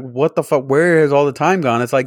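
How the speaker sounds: mock exasperation. Venting to a friend about lost evening hours, exasperated. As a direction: act out disbelief at the vanished time. Acting out end-of-day exasperation.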